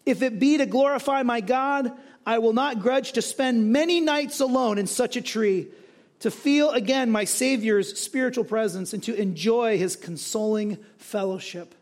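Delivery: lifted, emphatic recitation; declaimed quotation; impassioned testimony reading. Acted. Reads a friend's written testimony aloud.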